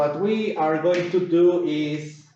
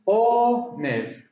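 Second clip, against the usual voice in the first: HONEST in two separated syllables, higher start; split into syllables; 4 semitones higher than usual. Shown as a demonstration. Teacher showing two syllables, HONEST split apart. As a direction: break HONEST into two beats. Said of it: "Two syllables".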